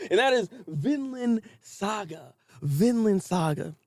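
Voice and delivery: dramatic show intro. Acted. Announcing the next show.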